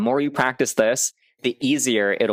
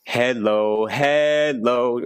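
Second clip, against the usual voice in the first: building volume drill; much slower than usual. Shown as a demonstration. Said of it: "it's great to take a phrase".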